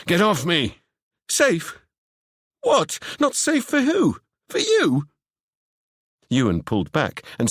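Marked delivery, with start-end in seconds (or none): 0.1-0.8 sharp shout to break free. Acted. Seb yelling at Ewan to let go, a sharp shout. 1.3-5.1 high, disbelieving character voice; incredulous high voice. Acted. Seb throwing Ewan's words back at him, high and incredulous.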